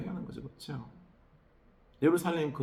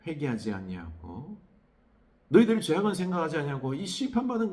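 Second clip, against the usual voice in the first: higher, louder stern rebuke; God rebuking; 4 semitones higher, 4 dB louder than usual. Acted. Preacher voicing God rebuking unrepentant Judah, stern and louder. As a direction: scold them as God demanding repentance. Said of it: "하나님 말해".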